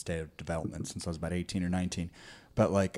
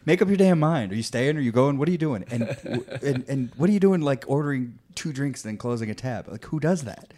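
louder, higher exasperated ranting; mock rant; 5 semitones higher, 4 dB louder than usual. Ranting at young bar kids over their tabs, mock exasperation. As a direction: rant at the clueless kids, playfully. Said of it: "it's like".

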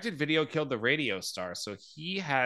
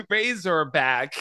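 "Razorback" drawn out slowly and louder in Aussie style; accent attempt; 3 semitones higher, 6 dB louder, slower than usual. Shown as a demonstration. Host tries again, a slow hammed-up Aussie accent. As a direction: stretch "Razorback" like a hammed-up Australian.

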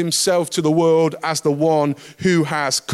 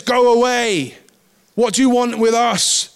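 mildly raised, higher shout; crying out; 4 semitones higher, 3 dB louder than usual. Acted. Demon interrupts Jesus in the synagogue, crying out. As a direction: call it out as a demon confronting Jesus. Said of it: "cries at the top of his voice".

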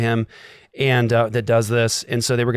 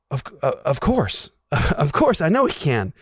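higher, stammered reassurance with a laugh; hesitant faith; 3 semitones higher than usual. Retold or imitated. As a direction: stumble into agreeing, not quite convinced. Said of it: "stage where you're like".

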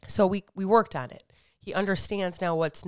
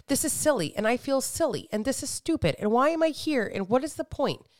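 pitched up, whiny inner voice; higher mock self-talk; 5 semitones higher than usual. Mother retelling her gym doubts, higher and whiny. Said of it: "because I told myself".

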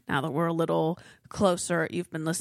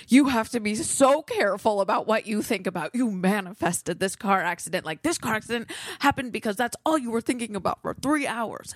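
louder, urgent warning from a sister; stressed sister; 4 semitones higher, 3 dB louder than usual. Retold or imitated. Sister on the phone stressed about manifesting, urgent and louder. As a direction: warn her urgently, a little louder. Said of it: "she calls me so stressed out".

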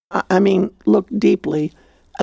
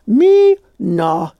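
mock scoff; 4 dB louder than usual. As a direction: imitate a brushing-off scoff. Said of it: "she scoffed".

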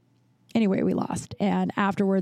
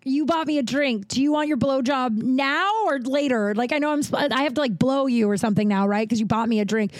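exaggerated contrition, somewhat higher pitched; sarcastic mock apology; 4 semitones higher than usual. Woman answering the man who bought her drink, sarcastic mock apology. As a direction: feign a sudden realization, laying on the sarcasm.

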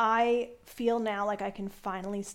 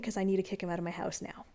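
whisper; 3 semitones lower, 7 dB quieter, much faster than usual. Retold or imitated. Hushed aside to neighbors.

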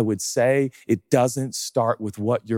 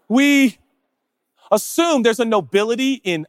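sudden loud cry; 10 semitones higher, 5 dB louder than usual. Acted. Sudden shout.

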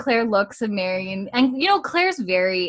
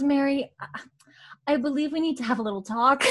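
unvoiced, laughing half-whisper; laughing through it; 6 semitones higher, faster than usual. Podcaster voicing Claire to Mary, laughing whisper. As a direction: try to stay serious while laughter leaks.

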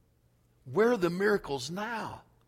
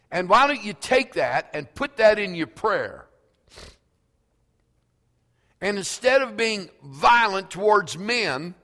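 louder, higher preaching call to fight; full-force preaching; 5 semitones higher, 7 dB louder than usual. Acted. Preacher urging the congregation to turn anger on Satan, full force. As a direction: rouse the church against Satan.

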